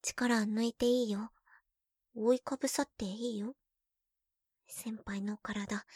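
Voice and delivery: slow soothing whisper. Acted. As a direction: coax him to relax. Soothing whisper under him.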